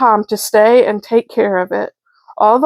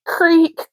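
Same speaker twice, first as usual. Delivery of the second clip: creaky floor sound; 7 semitones higher than usual. A narrator's reading. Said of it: "creak went the floor".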